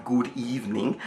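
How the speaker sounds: softly mouthed greeting, barely voiced; near-silent good evening. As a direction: mouth it across to the neighbour. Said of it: "he mouthed".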